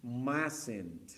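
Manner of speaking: "Mustn't" said as "MAS-ent", first syllable stressed; pronunciation model. Shown as a demonstration. Teacher shows students how "Mustn't" sounds. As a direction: model "Mustn't" as "masent" with a falling end. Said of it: "la pronunciación, más o menos sería así".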